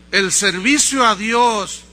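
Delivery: loud, slow preacher's proclamation; ringing pulpit declaration; Wycliffe. Retold or imitated. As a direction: declaim it at full force, word by word. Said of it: "Wycliffe siguió diciendo".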